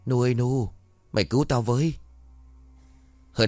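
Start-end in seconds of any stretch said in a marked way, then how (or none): 0.1-1.9 weak plea. Acted. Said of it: "Tư Báo thì thào".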